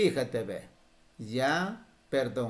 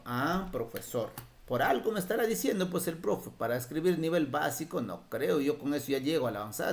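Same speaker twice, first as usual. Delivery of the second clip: voicing a student; 2 semitones higher, faster than usual. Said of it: "estarán diciendo ustedes".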